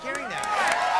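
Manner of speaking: slow, high Spanish accent. Shown as a demonstration. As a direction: hold the Spanish accent, slowly. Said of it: "Let's, let's hear some".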